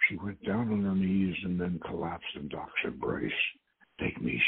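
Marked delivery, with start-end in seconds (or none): 4.0-4.4 low, soft husky voice; husky demand. A narrator's reading. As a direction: demand it low and husky, under full volume. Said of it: "she demanded in a husky voice".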